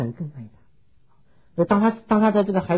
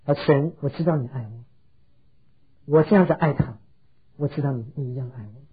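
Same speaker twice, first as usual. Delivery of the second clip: retold pleading prayer; 3 semitones lower than usual. Mother begging God to hear her child call her mom, retold pleading prayer. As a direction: earnestly plead with God, phrase by phrase. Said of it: "他在主面前祷告".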